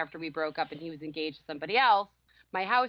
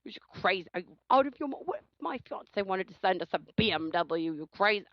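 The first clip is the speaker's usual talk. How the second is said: mock boyfriend outrage. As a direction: imitate his jealous outburst, pitched up. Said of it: "I was like".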